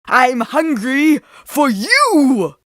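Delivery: loud, high, slow menacing cry; predatory roar. A narrator's reading. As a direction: pounce on the girl with the words. Villain lunges at Riding.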